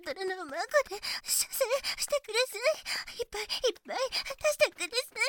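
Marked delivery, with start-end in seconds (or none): 1.2-5.2 desperate pleading. Acted. Climax, rushed pleading.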